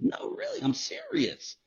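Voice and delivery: high-voiced mock insistence; high, soft imitation of Toby. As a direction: mimic Toby's earnest squeak.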